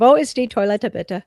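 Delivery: speaking German on request; German phrase. Pretend. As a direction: ask for the toilet in German. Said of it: "speak some German to me".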